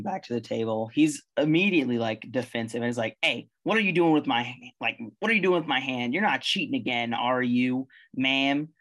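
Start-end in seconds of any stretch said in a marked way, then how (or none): 3.2-8.7 suspicious monkey. Acted. GM voices suspicious monkey accusing.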